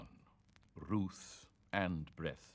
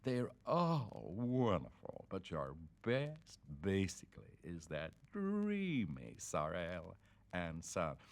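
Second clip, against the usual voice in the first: gushing wife; slower than usual. Retold or imitated. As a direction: coo it like an adoring fan. Gushing businessman's wife quoted.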